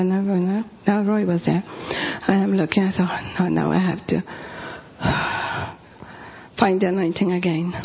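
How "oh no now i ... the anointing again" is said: low, deflated grumble with a sigh; mock weary resignation, sighing midway; dismayed. Speaker grumbling to herself after Roy walks in, dismayed.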